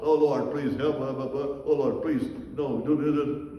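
lightly mocked mechanical prayer, flat and low; robot prayer. Preacher mocking a lifeless prayer, low droning monotone. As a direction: rattle it off like a bored robot. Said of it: "if you pray like a robot".

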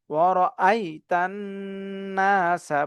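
"ওয়ারআইতান নাসা" piece by piece, long nasal n; measured "ওয়ারআইতান নাসা", n held before "নাসা"; broken into pieces. Shown as a demonstration. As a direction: separate each sound of "ওয়ারআইতান নাসা". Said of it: "ভেঙে ভেঙে করার চেষ্টা করব".

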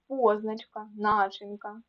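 ПОзначка, НАчинка; позначка, начинка with clear initial stress; stress on first syllable. Shown as a demonstration. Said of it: "наголос на першому складі".

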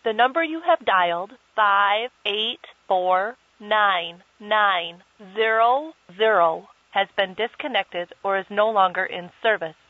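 automated phone recording voice; disconnected number message. Acted. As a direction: read it like a telephone intercept recording.

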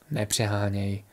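soft, low, soothing reply; chlácholivě. A narrator's reading. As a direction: gently play it down to calm a friend. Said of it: "chtěl uchlácholit Ostrovita tygr". (tiše a chlácholivě)

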